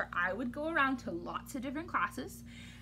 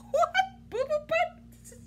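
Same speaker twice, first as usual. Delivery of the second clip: much higher disbelieving question; incredulous. Acted. Reader shocked at the silly name, high. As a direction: repeat it in mock disbelief.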